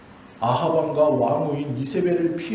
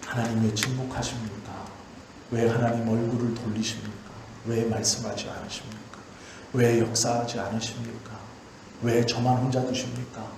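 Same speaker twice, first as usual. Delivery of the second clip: lower, quieter pleading questions; soft lament; 5 semitones lower, 3 dB quieter than usual. Retold or imitated. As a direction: plead gently as the lonely prophets. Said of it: "라고 하는 그들에게".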